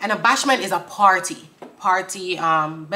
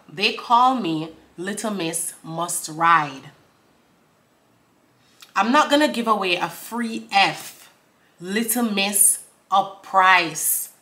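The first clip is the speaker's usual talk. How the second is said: slow bars, long pauses between; deliberate lyric recital; slower than usual. Acted. Reciting the verse for viewers, slow and deliberate. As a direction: draw out the end of each bar.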